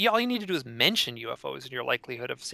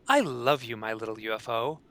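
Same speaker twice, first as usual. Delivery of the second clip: My Little Pony voice; 3 semitones lower than usual. Retold or imitated. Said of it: "in the little My Little Pony voice".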